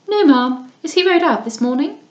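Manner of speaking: put-on affected young lady. Lady Louisa complains to Mrs Beaumont about the dust, affectedly high. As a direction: whine about the dust like a pampered girl.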